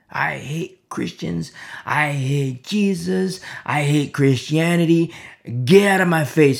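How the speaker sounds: slow, drawn-out hate, building in volume; retold hostility. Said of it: "he didn't like me".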